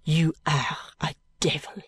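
a hint of tight, bitter French maid; lightly voiced held-in contempt; concentrated voice. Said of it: "saying in a concentrated voice".

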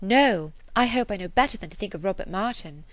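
strong emphasis on a firm NO; emphatic quoted protest, NO punched. A narrator's reading. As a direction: come down hard on No, then insist. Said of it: "spoken with such an emphasis".

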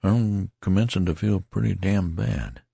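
a sick man admitting it; lightly voiced failing soldier; ailing soldier. Tattered man weakening.

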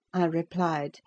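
usual speaking voice

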